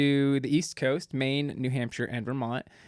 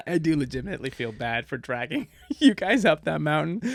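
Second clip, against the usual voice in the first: laughing; 2 semitones higher than usual. Real, not acted. Laughing while admitting feeling bad.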